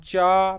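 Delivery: चा stretched out on its own; long, emphatic चा; separate syllable. Shown as a demonstration. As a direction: sound out चा slowly as one syllable. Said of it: "फिर इसके बाद".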